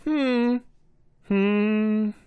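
high, loud, slow royal command; a proud king beckoning his subject. Acted. King hesitates.

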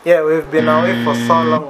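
talking through a mouthful of food; words muffled around a bite; mouth full. Real, not acted. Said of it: "I'm talking with food in my mouth".

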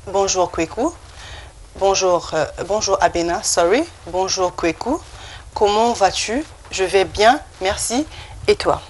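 "Comment vas-tu" in careful French with a rising end; pronunciation model. Shown as a demonstration. Teacher repeating the dialogue for learners, pronunciation model. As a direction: say "merci, et toi" in separate pieces for learners. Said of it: "You can just repeat after me".

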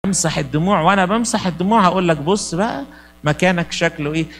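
lightly voiced, gentle fatherly reassurance; a hint of God's loving voice. God answering the sufferer, lightly voiced and gentle. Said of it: "ربنا يقول له".

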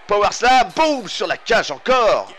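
high loud boom call; excited shout. Real, not acted. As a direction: punch the impact word. Slam onto cage. (cri excité, boum aigu)

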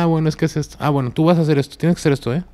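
friend voicing the deity. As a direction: play the friend passing on orders, lifted and insistent. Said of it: "Y es que él decía".

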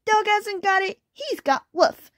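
high, plaintive kitten complaint; put-on high wailing; kitten's wail. A narrator's reading. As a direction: wail it all out like a tiny kitten. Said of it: "wailed little kitten".

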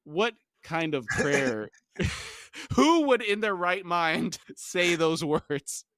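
incredulous, slow and drawn out through laughter; real amused astonishment; laughing disbelief. Real, not acted. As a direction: break up, then stretch out the question high. Reader breaks off, laughing in disbelief.

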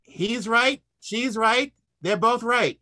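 lightly voiced Tevye, rising hands-up shrug; a hint of Tevye's on-the-other-hand. Comic doing Tevye to dodge the question, lightly voiced. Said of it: "I did a Tevye".

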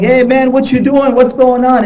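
a stranger calling across the hallway; retold yelling.

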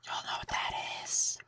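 hushed unvoiced whisper. Real, not acted. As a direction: whisper it so nothing hears. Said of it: "why are we whispering".

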